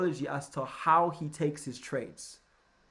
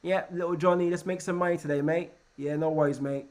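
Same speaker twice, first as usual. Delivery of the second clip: put-on playful Australian accent; Australian-accented banter; mock Aussie banker. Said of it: "and they say".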